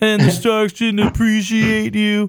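mocking, taunting voice with pitch lifted up. Retelling a scene where Ramsay mocks Theon: imitating Ramsay's mocking voice. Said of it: "a mocking voice? Ramsay does the same thing".

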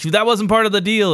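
put-on angry voice. Retelling a Star Wars scene, imitating angry Lando Calrissian. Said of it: "Lando's getting all pissed".

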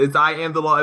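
normal talking voice

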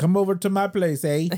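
put-on South African accent. Imitating Sinjin inviting her over: Sinjin impression in South African accent. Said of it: "South African is pretty good".

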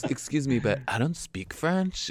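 entitled American tone. Retelling opposing counsel's objection at the hearing, imitating an entitled American. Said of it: "entitled and very, like, American".

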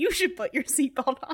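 laughing, amused delivery. Retelling a movie scene, quoting Robert Pattinson's line: imitating Robert Pattinson laughing. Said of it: "he laughs and goes".

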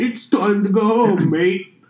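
put-on very high, slow, drawn-out British accent. Voicing the royal baby Archie answering a player: British accent. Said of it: "He's British".

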